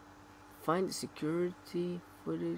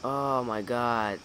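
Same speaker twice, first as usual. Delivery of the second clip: frustrated yell. Real, not acted. Frustrated search.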